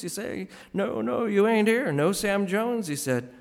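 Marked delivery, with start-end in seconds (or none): 0.7-2.9 Saint Peter refusing. Acted.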